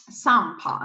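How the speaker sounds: "sampa" with a French nasal A in the first syllable; French "sampa", the M melting into a nasal vowel. Shown as a demonstration. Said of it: "you pronounce A".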